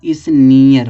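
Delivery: स्नीयर said slowly as "is-NEE-yar"; slow teacher's model of स्नीयर, ee stretched; blended pronunciation. Shown as a demonstration. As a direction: sound out स्नीयर with a long ee gliding into "yar". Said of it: "सब मिलाकर हो जाएगा".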